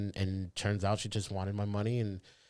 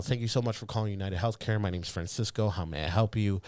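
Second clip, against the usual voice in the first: proper call center voice; 8 dB louder than usual. Shown as a demonstration. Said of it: "proper Cisco's gotta come out".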